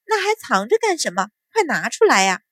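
eager, impatient prodding; hurried urging. Acted. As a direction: urge them to hand it over. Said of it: "白芍忙道".

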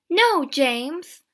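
loud, high protest; crying out. A narrator's reading. Sister contradicts her brother James, crying out. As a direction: cry out to stop him. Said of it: "I cried".

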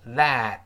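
"That" with the final t held back, not popped; unreleased final t. Shown as a demonstration. Teacher showing learners the lost plosive, unreleased final t. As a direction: stop the t of "That" without releasing it. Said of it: "它也会失去爆破".

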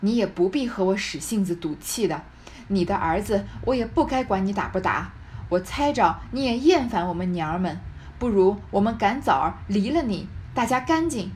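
mildly scornful, emphatic reproach; understated icy sarcasm; cold sneer. Acted. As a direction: coldly push the son away. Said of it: "贾母便冷笑道".

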